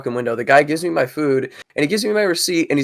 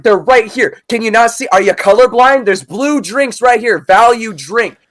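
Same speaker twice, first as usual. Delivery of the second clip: high, ranting manager voice; imitated angry manager; 8 semitones higher, 3 dB louder than usual. Manager berating employee over a missing drink, mock fury. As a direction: berate him in a pitched-up boss voice. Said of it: "And she's like".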